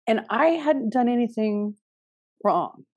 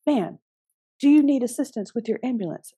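child playing cop; 4 semitones higher than usual. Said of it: "And he goes".

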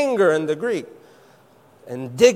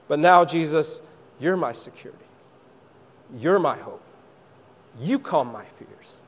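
heartfelt prayer. Retold or imitated. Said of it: "she's saying".

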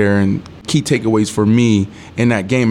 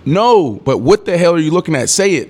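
demanding, irritated; 5 semitones higher than usual. Retold or imitated. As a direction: pitch up, pressing him to spit it out. Demanding teammate explain himself.

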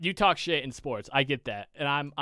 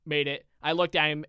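ordinary talk, nothing marked

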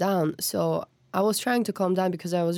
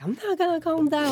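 raised, heated mock retort; retold angry outburst; 9 semitones higher than usual. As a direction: snap back as if still furious. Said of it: "Tana, calm".

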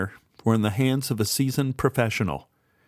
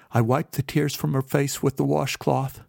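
ordinary delivery, nothing marked

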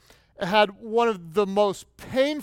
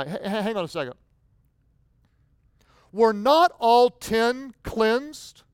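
1 puzzled surprise. Acted. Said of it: "you can almost sense his surprise".

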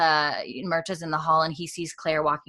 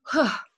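imitated shaky-hearted sigh, near tears; teary sigh; 8 semitones higher than usual. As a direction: sigh as if holding back tears. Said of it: "she's not crying, but, like, teary".

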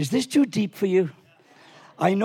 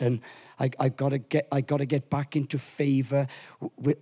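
whiny excuse; 5 semitones lower, 4 dB quieter than usual. Pretend. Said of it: "we go into religious mode".

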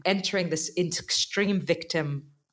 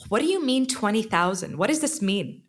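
retold disbelief; 5 semitones higher than usual. Retold shock at huge bill.

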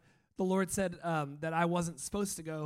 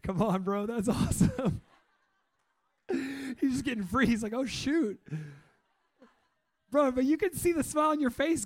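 higher and much louder, overjoyed praise; excited cheering; 7 semitones higher, 9 dB louder than usual. Real, not acted. Pastor cheering on a freed worshipper, thrilled and loud. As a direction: cheer him on as he breaks free.

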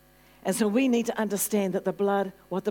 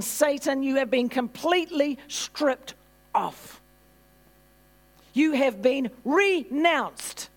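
raised, emphatic rebuke to Satan; forceful spiritual declaration; 5 semitones higher, slower than usual. Shown as a demonstration. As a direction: declare it forcefully, hammering each phrase. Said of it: "language that needs to come from our spirit".

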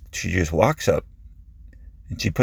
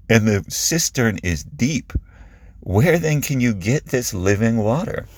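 higher-pitched, puzzled questioning; confused; 5 semitones higher than usual. Acted. Woman at the well questioning Jesus, confused. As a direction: challenge him, mildly baffled. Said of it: "her face is kind of confused".

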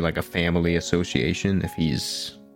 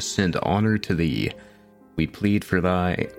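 solemn archaic letter read; formal letter reading. Acted. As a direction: read it like a grand plea. Reads quest letter aloud.

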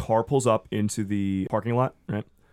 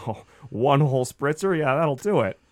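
wry husband; 3 semitones higher than usual. Acted. Gary voiced, mild sarcasm.

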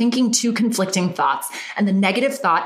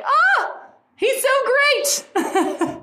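high, breathless swoon with a laugh; gushing swoon; much slower than usual. Real, not acted. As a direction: melt over him, giggling. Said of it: "I'm just like".

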